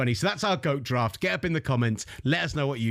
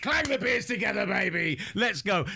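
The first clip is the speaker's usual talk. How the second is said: excited; 7 semitones higher than usual. Real, not acted. Celebrating the pick.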